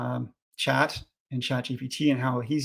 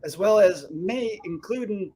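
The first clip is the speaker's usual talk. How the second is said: put-on Scottish accent; 6 semitones higher, 3 dB louder than usual. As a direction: read it in a broad Scottish accent. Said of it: "in a Scottish accent".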